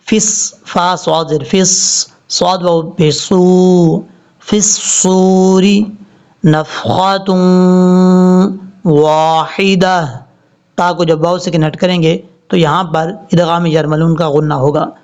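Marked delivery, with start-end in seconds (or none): 4.5-10.1 فِي الصُّورِ with fa running into sad; slow tajweed recitation; joined fi-sur. Shown as a demonstration. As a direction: link the words smoothly. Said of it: "فا کو صاد سے ملائیں گے".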